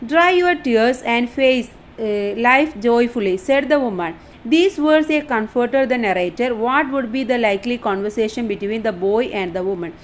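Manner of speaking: reading the English line out slowly, word by word; slow dictation reading. Shown as a demonstration. Teacher reading the study notes aloud, slow and deliberate. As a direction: spell it out slowly for the class.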